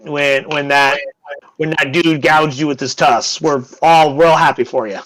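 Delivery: dry, lightly mocking thanks; slightly sarcastic. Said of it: "one guy slightly sarcastic going".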